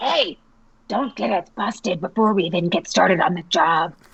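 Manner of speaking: yelling in a whisper. A character calls out to companions making noise outside: whisper-yell. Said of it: "yells in a whispered voice".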